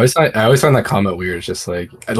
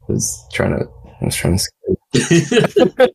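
mock plaintive; 8 semitones higher than usual. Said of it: "In my head, I'm like".

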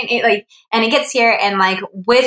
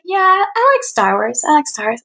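lukewarm friend; 7 semitones higher than usual. Retold or imitated. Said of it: "He's like".

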